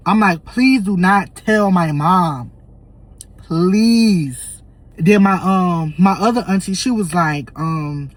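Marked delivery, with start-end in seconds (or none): 0.4-4.6 slow, drawn-out plea; beg, stretching out the please; retold pleading. Retelling his plea to grandma.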